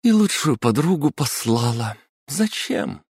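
высоко, с упрёком; отчитывает себя; scolding herself. Acted. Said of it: "сказала она своему отражению". (упрекает себя перед зеркалом)

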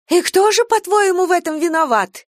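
high, loud biting question; words through teeth. A narrator's reading. Stepmother challenges the girl through her teeth, loud. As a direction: spit out the challenge. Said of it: "процедила Шейла".

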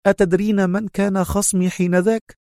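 proud telling, climbing in pitch; proud and grateful. A narrator's reading. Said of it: "لهجة تجمع بين الاعتزاز والامتنان".

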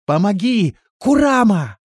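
высоко и громко, в отчаянии; кричать из колодца о помощи; отчаянный крик. A narrator's reading. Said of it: "отчаянный крик Биоты". (отчаянно крича)

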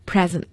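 present, stress on the first syllable, PRE-sent. Shown as a demonstration. Teacher showing the class adjective present, PRE-sent. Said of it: "形容词读的也是把重音放在前面".

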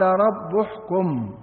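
رب احكم read slowly as "rabbu-hkum"; slow "u" vowel on the ب of رب; damma on the baa. Shown as a demonstration. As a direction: end رب on a "u", linked into احكم. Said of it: "بضم الباء".

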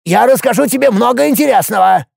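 high, creaky, hurried offer; creaky dwarf bargaining. A narrator's reading. Dwarf Hopus offers Alex anything to be spared, high and creaky. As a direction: plead and bribe in a creaking voice. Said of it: "скрипучий голос чуть окреп".

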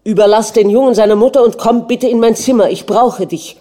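a jealous prince commanding his wife, loud and fast; curt, domineering, angry. A narrator's reading. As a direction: order her away in fury. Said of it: "sagte er schroff, herrisch und wütend".

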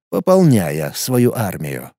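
slow, low ominous close. A narrator's reading. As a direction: drag out the final words. Repeated phrase, ominous ending.

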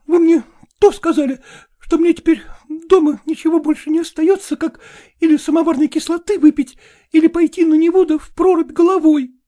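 a hint of a woman threatening to drown herself; despairing young woman. Катерина despairing farewell. (отчаянная молодая женщина, слегка)

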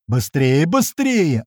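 urgent shout climbing high; acted strained yell, restrained volume; hoarse yelling. A narrator's reading. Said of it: "ору я уже хрипя".

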